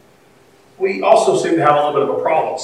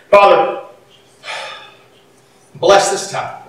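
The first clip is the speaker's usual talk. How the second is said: prayer; 3 semitones lower than usual. Real, not acted. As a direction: lead the congregation in prayer, easing down toward the amen. Leads the congregation in prayer.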